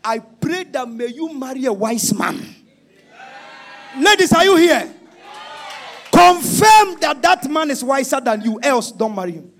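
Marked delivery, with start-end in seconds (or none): 4.0-9.5 rally the women; calling out to ladies. Real, not acted. Preacher addressing the ladies.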